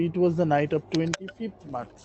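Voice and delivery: very slow, every word spaced out for the class; slow model reading. Shown as a demonstration. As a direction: read the line slowly so students can follow. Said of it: "প্রথম লাইনটা ছিল যে".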